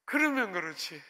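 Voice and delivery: mildly aggrieved retort; retold sour I-knew-it reaction; cynical grumble. Pastor grumbling at God over the wrecked car, cynical. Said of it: "삐딱하게".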